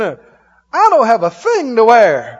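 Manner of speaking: slow, loud moan; mock complaining. Standing at the closet, slow mock complaint. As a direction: drag out a hammed-up complaint. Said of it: "went by the closet and went".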